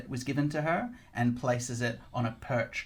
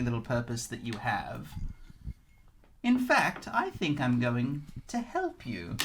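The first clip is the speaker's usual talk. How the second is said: sarcastic matriarch. Acted. Grandolpha sarcastically offering the cat help. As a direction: purr with sarcastic generosity.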